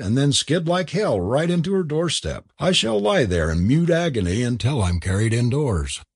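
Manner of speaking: cocky student showing off; young man's voice. Acted. Graham boasting in dialogue.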